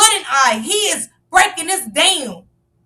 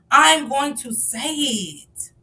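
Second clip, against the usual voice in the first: ordinary talk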